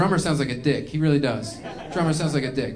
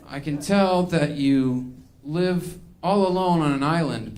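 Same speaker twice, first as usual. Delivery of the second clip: solemn slow healer; slower than usual. Retold or imitated. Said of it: "And then he goes".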